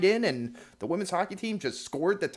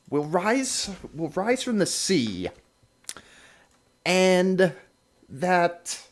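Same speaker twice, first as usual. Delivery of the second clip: slow, portentous doom reading with long pauses; drawn-out, mildly theatrical doomsday pronouncement; dramatic prophecy reading; 3 dB louder, slower than usual. Acted. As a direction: read it out like an ancient prophecy. Reads out a Viking prophecy.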